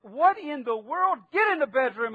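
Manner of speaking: high, loud mock-indignant mom; retold scolding mother. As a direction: play a mother ordering a child off. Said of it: "And his mother said".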